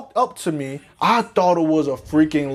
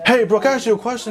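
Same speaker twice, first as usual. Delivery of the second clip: rushed; 3 semitones higher, much faster than usual. Retold or imitated. High narrator pestering friend.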